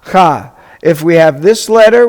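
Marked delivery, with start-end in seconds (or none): 0.1-0.5 "cha" as one isolated syllable with an open ah; teacher models Hebrew "cha"; syllable demo. Shown as a demonstration. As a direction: sound out "cha" for learners. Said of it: "we're gonna pronounce it".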